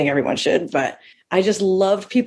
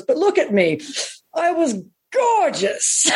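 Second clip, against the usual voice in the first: slow, high, grand self-admiration through a laugh; Bette Davis; 8 semitones higher, slower than usual. Retold or imitated. An aged star to Johnny Carson, slow, grand and laughing. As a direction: stretch out gorgeous with diva relish. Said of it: "and she goes".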